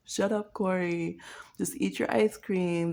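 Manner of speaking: drawn-out dismissive telling-off; slow mock brush-off; slow mock scolding. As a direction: say it slowly, tired of him. Scolding the pretend person.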